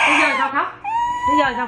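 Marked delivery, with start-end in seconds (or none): 1.3-1.7 put-on much higher, playful baby-talk pitch; squeaky high mock. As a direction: echo the question in a tiny high voice. Mother repeats question to toddler. (giọng the thé trêu con)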